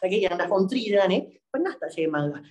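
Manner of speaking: usual speaking voice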